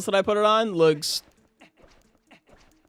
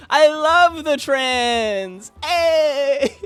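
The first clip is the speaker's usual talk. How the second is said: slow, higher, laughing; laughing mock declaration; 8 semitones higher, 5 dB louder, much slower than usual. Real, not acted. Joking to chat, slow and laughing. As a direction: say it through laughter.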